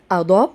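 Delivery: أضاب opened on a long aa; long alef. Shown as a demonstration. Teacher showing alef madd, أضاب with long first vowel. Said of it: "الاتنين بينطقوا زي ألف المد".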